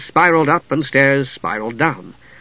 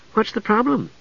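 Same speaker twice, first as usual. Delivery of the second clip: calm; 9 semitones higher, 5 dB quieter than usual. A narrator's reading. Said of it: "Usha asked calmly".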